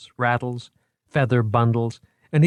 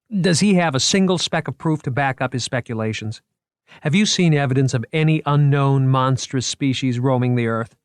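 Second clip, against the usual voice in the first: put-on higher, eager young curator showing off his exhibit; a keen museum man pitching his show, higher and lively; 5 semitones higher, 4 dB louder than usual. A narrator's reading. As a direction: sell the exhibit with boyish enthusiasm. Moriarty argues with Margot.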